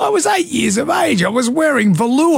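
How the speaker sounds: high-pitched comic self-defence; outraged, high-pitched plea of innocence; indignant protest. Real, not acted. Defends himself against teasing.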